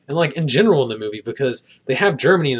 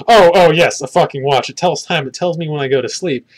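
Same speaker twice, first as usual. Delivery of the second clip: mock-flustered, loud at the start, then settling; hammed-up nervous man rushing to cover for himself; a flustered Chris Pine bluffing about his watch; flustered overexplaining; 2 semitones higher, 5 dB louder than usual. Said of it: "he's actually like".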